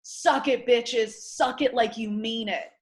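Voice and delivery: mock yell at the pledges; shouting taunts across the backyard; retold yelling. Screaming at girls in backyard.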